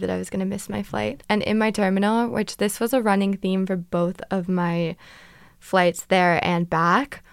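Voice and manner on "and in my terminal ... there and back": ordinary talk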